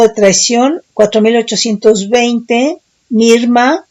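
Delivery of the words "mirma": Mirma with the accent on the last A; stress on final A. Shown as a demonstration. Teacher reads out a Hebrew word, Mirma stressed on the last A. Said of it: "con acento en la A".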